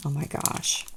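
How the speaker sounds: whispered oh my gosh under the breath; awed whisper. Real, not acted. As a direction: let it slip out as a hushed gasp of delight. Awed by gorgeous chain.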